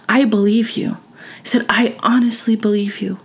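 hushed, heartfelt retold reassurance; emotional reassurance. Telling the upset child she believes him, emotional reassurance. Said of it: "I'm getting emotional".

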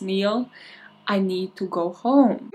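put-on slurred drunk pleading; drunken voice. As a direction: sound tipsy and tired. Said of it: "in her drunken voice".

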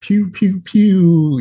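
high squeaky pew pew; firework voice. Acted. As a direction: shoot off fireworks with your voice. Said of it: "that's my firework voice".

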